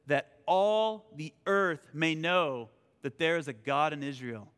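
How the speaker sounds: slow, weighty declaration, falling away at the end; solemn scripture proclamation. Acted. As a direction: stretch each key word as you proclaim it. Reads scripture aloud.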